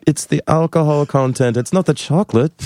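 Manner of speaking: high-pitched mock protest; high, hammed-up self-justification; mock defensive. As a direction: play a put-upon excuse, pitched well up. Acting out a defensive reply to journalist.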